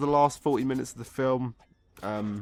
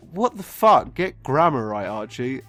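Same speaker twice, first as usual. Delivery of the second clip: mock outrage; 8 dB louder than usual. Real, not acted. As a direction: scold the script writer. Mock outrage at script grammar.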